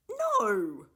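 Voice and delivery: loud, high defiant refusal; defiant retort. A narrator's reading. Con refuses the professor, loud and defiant. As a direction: throw it back in his face. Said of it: "retorted Con".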